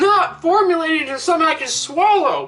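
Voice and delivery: talking while chewing; mouth full. Real, not acted. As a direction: speak through a mouthful. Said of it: "I'm still chewing it".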